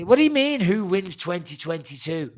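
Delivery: high-pitched jump into baffled disbelief; incredulous. Real, not acted. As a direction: throw the question back, baffled. Baffled by fan's vague question.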